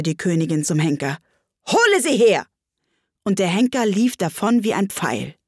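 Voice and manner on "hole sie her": evil queen. Acted. Queen commands executioner.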